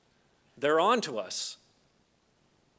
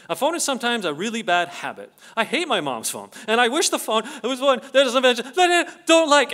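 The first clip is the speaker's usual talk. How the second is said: lightly voiced seven-year-old, growing indignant; a hint of a schoolchild; 2 semitones higher, 6 dB louder than usual. Reading the grade two pupil's letter to the audience, a hint of a child. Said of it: "this grade two-er says".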